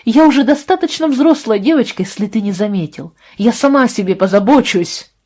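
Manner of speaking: high, loud defiant shout; yelling. Acted. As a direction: yell back at him, defiant. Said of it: "заорала она". (дерзкий крик, громко и высоко)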